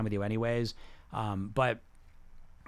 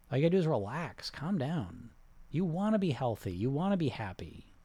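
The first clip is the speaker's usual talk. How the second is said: soothing affirmations; 2 semitones lower than usual. Acted. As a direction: lull them toward change, gently. Guided affirmations.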